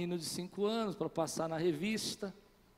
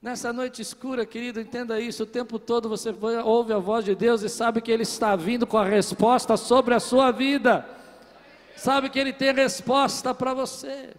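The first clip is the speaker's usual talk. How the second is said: louder and louder, slowing at the peak; full-force preaching; 4 semitones higher, 10 dB louder than usual. Acted. Pastor driving the point home to the congregation, full force. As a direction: preach it to the rafters.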